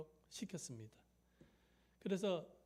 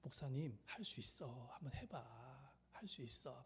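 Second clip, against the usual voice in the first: soft, coaxing pep talk; softly imitating encouraging friends; quiet encouragement; 3 semitones lower, 8 dB quieter than usual. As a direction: urge a colleague on in a lowered voice. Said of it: "용기를 막 심어주는 거예요".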